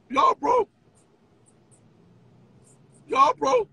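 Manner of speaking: high sing-song jeer at the chat; Y'all broke sung high and mocking; mocking sing-song taunt. Taunting chant at viewers.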